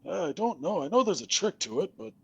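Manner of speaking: high, wavering confused skeleton. Acted. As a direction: play a doddering skeleton. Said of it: "the skeleton says".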